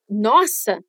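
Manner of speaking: dismayed nossa, falling; negative surprise. Shown as a demonstration. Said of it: "de surpresa negativa".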